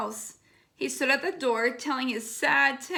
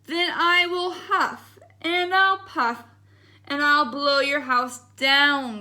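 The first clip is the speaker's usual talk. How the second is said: growled wolf threat; 5 dB louder, slower than usual. Acted. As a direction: menace the pig like the big bad wolf. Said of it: "growled the wolf".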